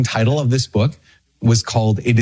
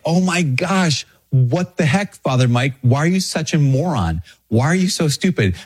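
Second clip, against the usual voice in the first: self-scolding; 5 semitones higher than usual. Retold or imitated. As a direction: scold yourself in playful disbelief. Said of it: "And I was like".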